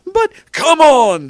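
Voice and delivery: high, drawn-out shout; urgent, loud call. A narrator's reading. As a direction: shout it high, stretching the words. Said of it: "Dumbledore shouted".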